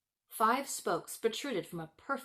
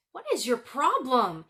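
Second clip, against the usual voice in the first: irritated snap; 4 semitones higher, 5 dB louder than usual. Acted. Kay shoving Gerda away.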